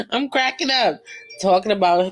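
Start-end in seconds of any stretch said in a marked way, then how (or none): 0.1-1.0 high squealing laugh into words; cracking up laughing. Real, not acted. Vlogger admitting she's cracking up, laughing high. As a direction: laugh helplessly then admit it.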